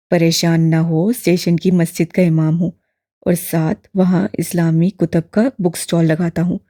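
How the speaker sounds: put-on old imam voice. A narrator's reading. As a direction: voice the old man, kindly and curious. Old man introduces himself.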